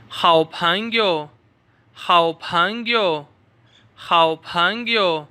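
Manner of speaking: 好朋友 spelled out syllable by syllable; 好朋友 in a slow drilling voice. Shown as a demonstration. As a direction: stretch 好朋友 very slowly for learners. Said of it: "मेरे साथ पढ़ते जाएं".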